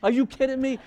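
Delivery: what, are you serious; shocked disbelief. Retold or imitated. Preacher mimics a listener hearing the verse, loud shocked disbelief. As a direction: jump up high and loud in disbelief. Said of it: "You're like".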